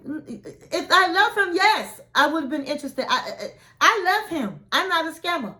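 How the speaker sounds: mock-earnest protesting lover; pleading protest. Retells Matilda protesting her love.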